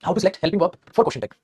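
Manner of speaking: every word spaced out very slowly for copying; slow dictation. Shown as a demonstration. Teacher to class, dictating the heading very slowly. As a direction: say it as if students are writing it down.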